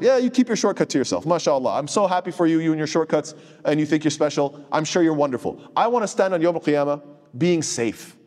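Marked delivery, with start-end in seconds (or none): 0.0-5.6 sarcastic dismissal. Acted. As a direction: wave them off with feigned delight. Mockingly dismisses someone's claimed shortcut.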